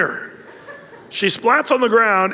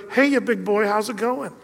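flirty Jezebel; 3 semitones higher than usual. Acted. Jezebel calls down, flirting from tower.

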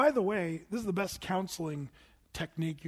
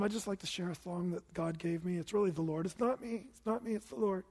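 mock humble musician; 4 dB quieter than usual. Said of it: "musicians would get up in front of the church".

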